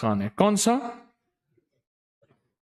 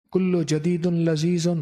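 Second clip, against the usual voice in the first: slow motto; slower than usual. Shown as a demonstration. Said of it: "slow chanted motto".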